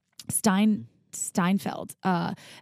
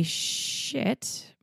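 whispered aside; 7 dB quieter than usual. Real, not acted. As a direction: whisper the rude word. Hushed rude word.

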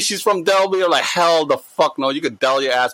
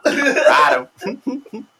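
mock cowboy call; 9 semitones higher than usual.

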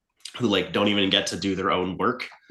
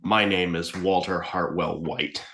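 Walter White impression; 4 semitones lower, 3 dB quieter, slower than usual. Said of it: "He's making Walter White face".

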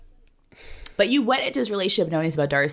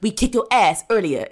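mock tough guy voice; 4 semitones higher, 3 dB louder than usual. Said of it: "It's very, like".

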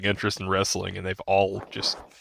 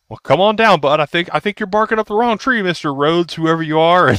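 imitating the victim; 9 semitones higher, 7 dB louder than usual. Unbothered victim answers.

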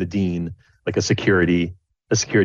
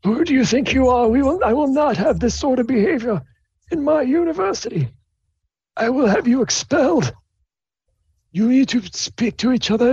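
much higher, formal scolding dean voice; high-pitched strict headmaster voice; stern dean. Acted. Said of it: "the dean's like".

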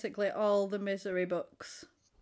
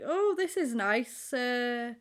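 feigned politeness; 2 semitones higher, slower than usual. Retold or imitated. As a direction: imitate polite praise you don't quite mean. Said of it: "doesn't look overly enamoured with it".

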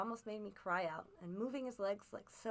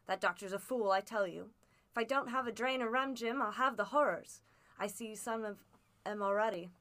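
a lightly voiced rough old seaman, louder; coaxing his boy as a worn-out old sailor; old sea captain; 6 dB louder than usual. Captain begs for rum.

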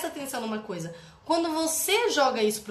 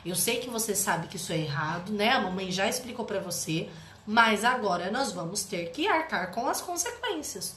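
lower, calm parent voice; gently accepting; 3 semitones lower than usual. Shown as a demonstration. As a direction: reassure the child, staying steady. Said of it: "você acolhe essa criança". (acolhimento calmo, tom mais baixo)

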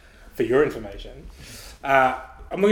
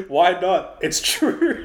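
imitating cocky kid; 6 semitones higher, slower than usual. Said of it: "he's like".

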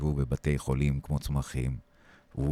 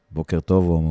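mild mock yell; 2 semitones higher, 6 dB louder than usual. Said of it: "הוא צועק אליי".

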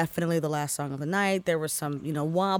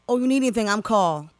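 put-on Baltimore accent; 3 semitones higher than usual. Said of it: "He said".

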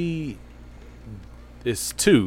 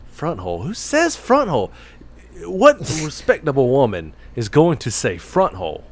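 incredulous outburst; 5 semitones higher, 4 dB louder than usual. Real, not acted. Outraged mock disbelief.

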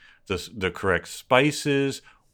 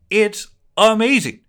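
high, loud burst of enthusiasm; amazed rave; 14 semitones higher, 7 dB louder than usual. Real, not acted. Raving to co-hosts about a recipe blog, amazed. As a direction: gush it, pitch leaping right up.

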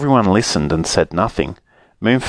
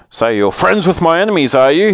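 higher, sneering accusation; accusing snowman voice; 8 semitones higher, 3 dB louder than usual. Acted. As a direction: accuse them, looming.

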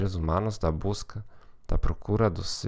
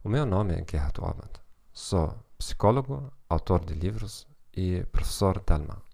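German accent Portuguese. Real, not acted. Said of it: "com sotaque alemão".

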